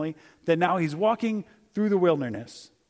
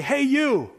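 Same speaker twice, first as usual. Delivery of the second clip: casual call; 7 semitones higher, 4 dB louder than usual. Retold or imitated. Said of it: "He doesn't just say".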